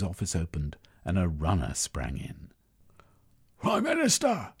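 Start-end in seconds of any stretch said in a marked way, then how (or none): 3.6-4.5 a lightly raised call, pitched higher; crying out. Acted. Runner bursting into the office calls the Prime Minister, mildly raised. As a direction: hail the leader urgently, higher. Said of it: "he cried".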